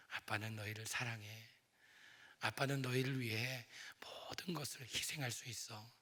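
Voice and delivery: put-on a quiet, loving father comforting his kids; tender father. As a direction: speak gently, almost whispering in places. Father speaking tenderly to children.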